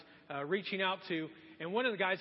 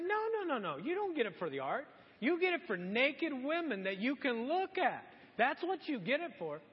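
higher, emphatic contradiction; insistent correction; 6 semitones higher than usual. Retold or imitated. Pastor retelling how he challenged his friend, insistent. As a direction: shoot the excuse down firmly.

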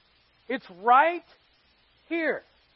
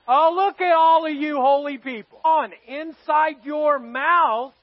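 mock teasing; 3 semitones higher, 6 dB louder than usual. Real, not acted. Teasing congregation who raised hands.

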